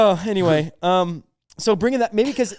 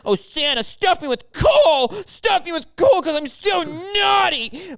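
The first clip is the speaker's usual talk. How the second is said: dirty sleep talker; 11 semitones higher, slower than usual. Acted. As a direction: wail it out, slow and high, like a naughty sleep-talker. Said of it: "the dirty sleep talker".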